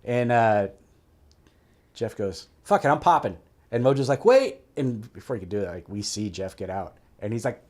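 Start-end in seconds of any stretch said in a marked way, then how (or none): 2.6-3.4 fed-up outburst. Retold or imitated. Angry teammate decides to jump out. 4.2-4.6 loud, high shout to stop someone; sharp retold cry of alarm; urgent call. Shift leader calls out to stop him.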